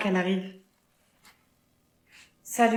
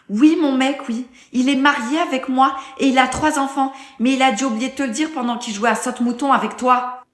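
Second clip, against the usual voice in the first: angry sarcastic; 6 dB louder than usual. Acted. Wife confronts mistress on phone.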